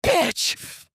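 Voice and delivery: high, raging shriek of fury; furious scream. Acted. Violet screaming at the vanished attacker in fury. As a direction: spit it out in uncontrolled rage. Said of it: "Violet screamed in uncontrolled fury".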